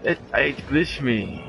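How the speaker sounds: frustrated disbelief. Real, not acted. Stuck by game glitch.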